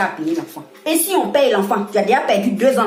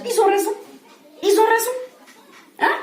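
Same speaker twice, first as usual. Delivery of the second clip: laughing sarcasm; 12 semitones higher than usual. Real, not acted. Mocking the compatriots' claim.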